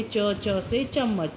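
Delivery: slow, stretched च से चम्मच; patient slow hint; slow hint to a child. Shown as a demonstration. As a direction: draw the answer out slowly as a hint. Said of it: "थोड़ा सा आप hint देंगे".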